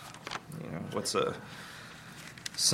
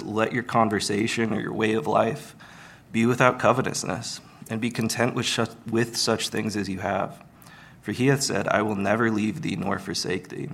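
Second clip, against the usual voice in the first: louder, measured Bible reading; solemn King James reading aloud; scripture reading; 4 dB louder than usual. Acted. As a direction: read the verse out with weight.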